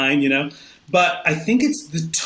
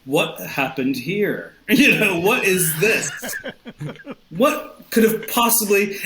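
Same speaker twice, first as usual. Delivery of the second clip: crime scene investigator; 4 semitones higher than usual. Pretend. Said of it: "as if I'm, like, a crime scene investigator".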